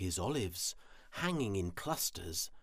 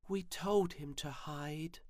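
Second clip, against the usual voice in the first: high-pitched sighing voice; sighing little creatures; 8 semitones higher than usual. A narrator's reading. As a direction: sigh it out high, as a small creature. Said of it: "spider sighed".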